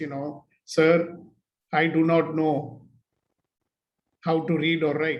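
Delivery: very sad, sorrowful, downcast voice. Telling a story, the verger answers the manager in a very sad voice. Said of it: "he says in a very sad voice".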